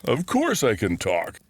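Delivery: smug, knowing reply with a grin; a grinning bear who is amused by the question; sly grin. Acted. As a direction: sound pleased with yourself, smiling. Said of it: "the bear said with a sly grin".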